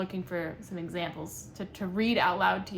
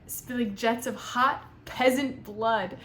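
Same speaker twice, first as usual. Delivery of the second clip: mock dramatic reading; 3 dB louder, slower than usual. Shown as a demonstration. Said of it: "I shouldn't laugh".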